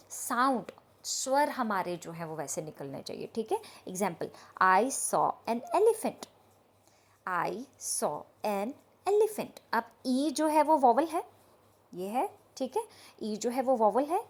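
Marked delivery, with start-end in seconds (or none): 4.6-6.3 slow demo. Shown as a demonstration. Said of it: "teacher demonstrates example slowly". 7.3-9.6 slow demo. Shown as a demonstration. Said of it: "teacher repeats example slowly".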